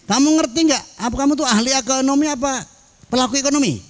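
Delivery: high, quick quizzing voice; lightly voiced teacher testing a student; questioning teacher. (ustadz menguji murid dengan nada tinggi)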